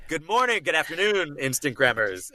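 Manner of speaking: sing-song greeting gliding down to punched R's; Chad Lindberg. Acted. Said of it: "that calibration phrase".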